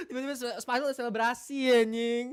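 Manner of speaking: laughing through the words. Real, not acted. Streamer laughing to viewers about the projector blackout. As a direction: break into laughter mid-sentence.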